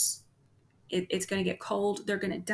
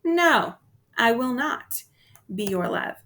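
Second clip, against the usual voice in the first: firm refusal; 2 semitones higher, 5 dB louder than usual. Retold or imitated. Teacher voicing the nymph turning down the shepherd, firm refusal. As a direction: turn him down flatly and firmly. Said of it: "what she's saying to him is".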